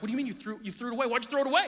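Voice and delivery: exasperated disbelief. Retold or imitated. Husband to wife about the plunger, rising indignant disbelief. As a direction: demand why she did it. First fight over thrown plunger.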